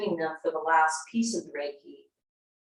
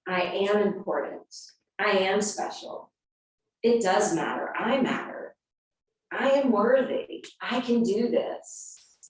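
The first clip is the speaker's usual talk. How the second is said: affirmations. Shown as a demonstration. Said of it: "verbiage that is affirmative".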